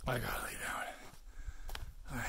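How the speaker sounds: slow, whispery exhausted groan of words; worn out. Real, not acted. Searcher needing to lie down after the hike, worn out. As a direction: say it slowly, drained of voice. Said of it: "I'm so tired".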